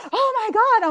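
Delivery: high, loud, laughing gasp of outrage. Retold or imitated. Reacting to a post, high, loud, laughing outrage. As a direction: squeal it out, half laughing. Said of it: "I'm like".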